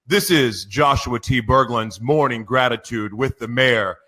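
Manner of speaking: big, bright announcer intro; hyped morning show announcer; radio show opener. Acted. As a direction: open the broadcast like a radio host.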